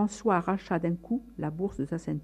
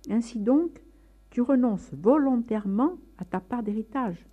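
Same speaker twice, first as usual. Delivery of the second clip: stern bishop; 7 semitones higher, 4 dB louder than usual. Acted. Bishop questions Francis before assembly.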